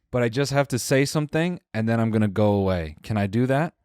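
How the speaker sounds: put-on lightly accented drunk stranger like Borat; depressing Borat accent. Wasted guy asks to say something, lightly Borat-accented. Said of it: "depressing Borat".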